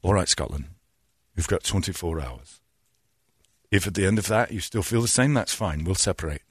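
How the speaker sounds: lightly voiced calm politician; low, measured TV announcement; David Cameron. Prime minister calmly warning Scotland, lightly imitated low voice. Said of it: "it was David Cameron".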